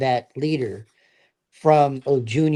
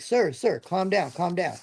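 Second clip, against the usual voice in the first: softer, soothing plea to settle down; calming him down; 4 semitones higher, 5 dB quieter than usual. Retold or imitated. Sergeant soothing his ranting lieutenant, softer reassuring voice. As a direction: ease the ranting officer down gently. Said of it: "I had to calm him down".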